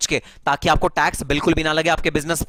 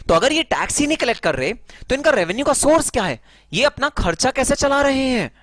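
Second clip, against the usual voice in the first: high-pitched, incredulous questions; puzzled questioner; 8 semitones higher than usual. Acted. Student asking sir how tax havens survive, incredulous. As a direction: ask in raised-pitch disbelief, like a baffled student. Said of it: "तो sir, एक बात बताइए".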